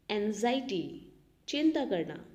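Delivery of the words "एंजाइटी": slow. Shown as a demonstration.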